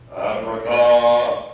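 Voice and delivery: showy magician patter, high and loud; kids party magician. Acted. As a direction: ham it up like a stage magician. Priest performs magic trick.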